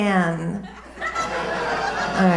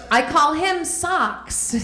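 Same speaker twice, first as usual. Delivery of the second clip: giggling through the punchline; slow, higher, laughing; 8 semitones higher, slower than usual. Real, not acted.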